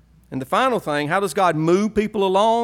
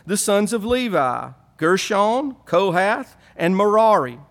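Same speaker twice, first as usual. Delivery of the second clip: Southern Hebrew voice. Pretend. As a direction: read the names like a Southern Hebrew redneck. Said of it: "my best Southern Hebrew voice".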